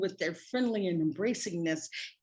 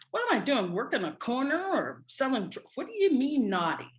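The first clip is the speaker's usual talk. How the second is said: higher-pitched, mock-offended questioning; offended comeback, pitched up; indignant retort; 5 semitones higher than usual. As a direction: demand an explanation, taking offence. Indignant retort to being called naughty.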